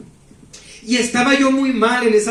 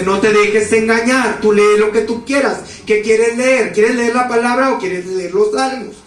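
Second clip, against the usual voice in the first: angel's voice. Retold or imitated. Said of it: "llega la voz y me dice".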